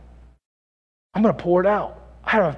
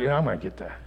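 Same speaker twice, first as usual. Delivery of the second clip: 1 flesh voice; 7 semitones lower, 8 dB quieter, faster than usual. Retold or imitated. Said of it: "my flesh was like".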